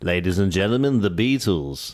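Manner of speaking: a put-on Liverpool accent, announcing. Husband keeps up his Liverpool accent, announcing a band. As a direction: introduce the band like a Scouse compere. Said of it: "The only accent you think you can do".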